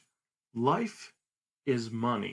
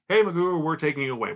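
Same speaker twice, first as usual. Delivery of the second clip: thuggish shout; 4 semitones higher, 7 dB louder, faster than usual. Retold or imitated. Goons come to seize him.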